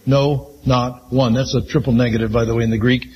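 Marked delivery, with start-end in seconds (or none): 0.1-1.3 each word slow and weighted, "no, not one" spaced out; slow emphatic no. Shown as a demonstration. Preacher stressing scripture to congregation, slow emphatic. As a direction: let "no" land, then "not one" slowly. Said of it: "It's very emphatic".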